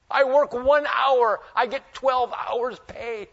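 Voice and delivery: slow, shouted gloat from a worker paid twelve hours for one; delighted late worker. Acted. Preacher voicing the late hired worker, slow gleeful shout. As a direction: crow it out slowly like a lucky day laborer.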